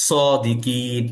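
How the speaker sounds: সদিকিন with a heavy, full first syllable; thick Sad. Shown as a demonstration. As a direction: stretch সদিকিন, thick s and long final vowel. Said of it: "সেই শব্দটাও হবে মোটা".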